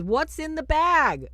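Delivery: high, loud, slow possessed taunt; demon voice. Retold or imitated. Possessed girl taunts the priest back, high and loud. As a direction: draw it out, menacing. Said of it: "And she says".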